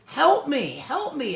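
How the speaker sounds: high, loud cry for help; acted-out frantic begging; mock panicked plea. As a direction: plead for rescue from a spider. Re-enacts pleading over a spider.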